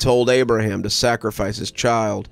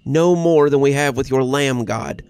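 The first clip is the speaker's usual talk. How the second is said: cherubic steady voice; 2 semitones higher than usual. Acted. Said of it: "his cherubic voice sounding steady".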